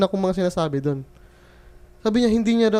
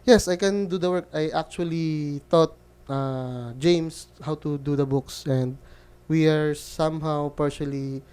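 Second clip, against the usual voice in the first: flustered answer; 3 semitones lower, 6 dB quieter, slower than usual. Retold or imitated. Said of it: "parang nag-aapa ako nun".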